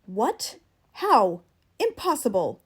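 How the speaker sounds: loud shocked outburst; shocked disbelief. Acted. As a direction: blurt it out in disbelief. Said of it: "He stood up distracted".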